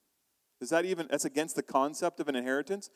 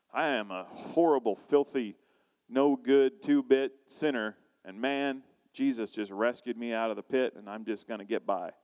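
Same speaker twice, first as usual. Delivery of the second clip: mock Southern cowboy confession, fading toward the end; Southern cowboy attitude; 3 semitones lower than usual. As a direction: play a downtrodden Southern cowboy sinner. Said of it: "like, a Southern cowboy attitude".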